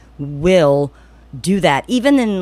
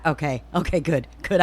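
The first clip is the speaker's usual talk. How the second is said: self-soothing murmur; 6 dB quieter than usual. Retold or imitated. Self-soothing after relief.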